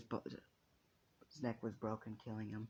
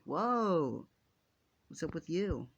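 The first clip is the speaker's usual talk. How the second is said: higher, louder drawn-out "whoa"; startled; 6 semitones higher, 7 dB louder, much slower than usual. Acted. Friend suddenly embraced with a hug, startled and puzzled. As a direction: act taken aback, pitched up.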